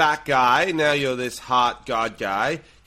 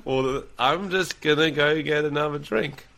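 awkward exit line. Acted. A man escaping an awkward bar chat, trying to get away. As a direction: repeat the excuse like you are desperate to leave. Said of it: "That's the only line I can".

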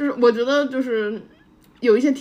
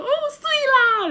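put-on very high child calling Taiwanese accent; much faster than usual. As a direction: shout it like a Taiwanese kid from afar. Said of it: "远远的跑过来说".

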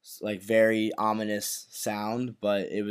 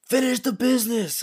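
Luca Changretta; 13 semitones higher than usual. Retold or imitated. Host mimics gangster screaming at his compatriots, high mock yell. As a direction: imitate a mobster yelling at his men. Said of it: "he screams in Italian".

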